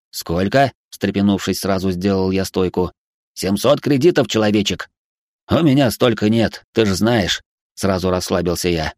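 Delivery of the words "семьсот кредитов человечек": robot voice. Acted. Robot Spy.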